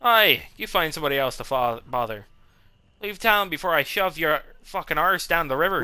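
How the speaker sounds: light mock Irish brogue, tough-guy threat; a touch of Irish swagger; Irish accent. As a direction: play a hammed-up Irish brawler telling a merc off. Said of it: "I don't know why I went Irish".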